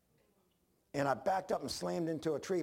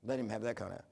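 a hushed little prayer; prayerful aside; 2 semitones lower than usual. Retold or imitated. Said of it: "I said".

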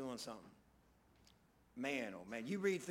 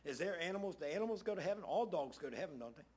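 upset lady quoting; 5 semitones higher than usual. Retold or imitated. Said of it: "She said".

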